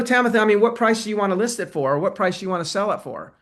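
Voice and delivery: quick, businesslike. Shown as a demonstration. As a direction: rush it like a salesman. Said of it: "usually we say".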